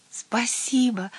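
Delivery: slow, high, grateful thanks; delighted. A narrator's reading. Little witch thanking the head witch, delighted. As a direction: draw out a happy thank-you. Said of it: "обрадовалась".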